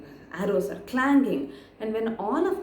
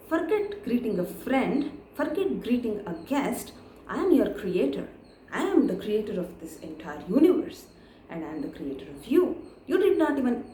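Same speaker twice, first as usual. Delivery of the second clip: angry Brahma; 2 semitones higher than usual. Acted. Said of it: "Brahma blurted".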